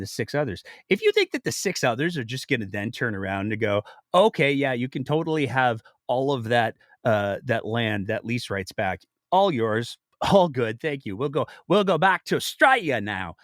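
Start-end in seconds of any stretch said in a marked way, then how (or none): 4.1-13.4 a barely put-on Australian accent; mock coal bosses in a half-hearted Australian accent; lightly hammed Australian accent; bad Australian accent. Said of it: "that was the worst Australian accent ever".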